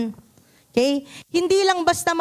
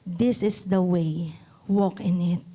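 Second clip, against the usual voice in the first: gentle whisper; 7 semitones lower than usual. Acted. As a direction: whisper it like a guiding voice. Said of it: "He whispers gently to you".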